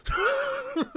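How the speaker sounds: cracking up at a rival's mumbled video; laughing. Real, not acted. Streamer laughs at the rival's mumbling to chat. Mocking the muffled video audio.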